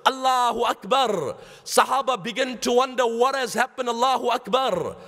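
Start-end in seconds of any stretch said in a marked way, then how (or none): 0.1-1.4 mild mock yell, voice slightly raised; retold yelling. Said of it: "started yelling". 3.9-5.0 mild mock yell, voice slightly raised; retold yelling. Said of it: "started yelling".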